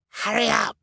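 high-pitched, loud distant call. A narrator's reading. Villain calls from his car through the smoke, calling out. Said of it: "a voice call out of the smoke".

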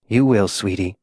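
low, soft comforting; gentle reassurance. A narrator's reading. Rescuer comforts dying June, soft low reassurance.

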